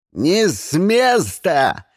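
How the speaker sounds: slow, drawn-out armed order; shouted command. A narrator's reading. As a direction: halt them with a shout. Lars orders at gunpoint. (протяжный приказной окрик)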